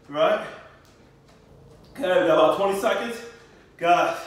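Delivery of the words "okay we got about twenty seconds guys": loud coaching. Real, not acted. Pushing class through cardio.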